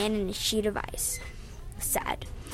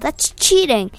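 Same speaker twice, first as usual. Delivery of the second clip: higher, louder call of protest; 4 semitones higher, 8 dB louder than usual. A narrator's reading. Narrator calling to Nick as they run, calling out. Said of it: "I called".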